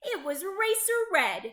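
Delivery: high, loud winner's call; excited announcement. A narrator's reading. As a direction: proclaim the winner at the finish line. Narrator announces the race winner.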